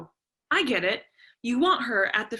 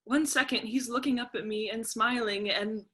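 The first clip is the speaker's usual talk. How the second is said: tearful; 6 dB quieter than usual. Acted. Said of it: "Celia has been crying".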